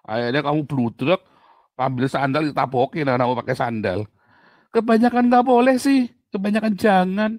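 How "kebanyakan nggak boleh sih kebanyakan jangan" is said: exasperated. Real, not acted. Preacher scolds the congregation.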